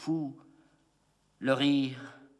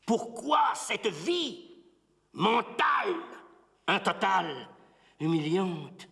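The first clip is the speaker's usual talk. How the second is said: anguished declamation; 8 semitones higher than usual. Acted. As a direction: hurl the question up high, word by word. Anguished question cried in poem. (protestation déchirée, aiguë et lente)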